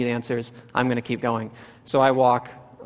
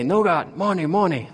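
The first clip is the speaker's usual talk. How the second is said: higher, sing-out imitated demand; insistent demand; 6 semitones higher than usual. Two men demanding money from the newcomer, mock insistent. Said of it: "they start tapping their pockets".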